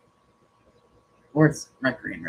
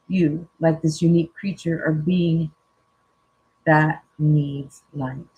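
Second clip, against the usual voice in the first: calm, measured reading of a card message; reading aloud; 4 dB louder than usual. Acted. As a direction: read it out gently and evenly, like a spiritual message. Reads oracle card text aloud.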